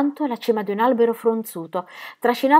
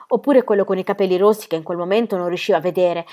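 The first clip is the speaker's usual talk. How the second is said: plain reading voice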